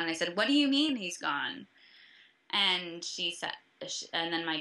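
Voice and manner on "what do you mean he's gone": re-enacted incredulous question, raised pitch; shocked disbelief. Friend replying to sobbing mom, retold shocked disbelief. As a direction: push back in disbelief, a bit louder.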